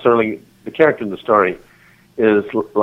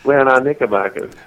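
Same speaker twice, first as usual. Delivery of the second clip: playful mock Southern gentility; Southern character voice; 2 semitones higher than usual. Guest extending the mojito riff, mock Southern voice. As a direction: carry on the genteel Southern daydream. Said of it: "that southern thing got to me so".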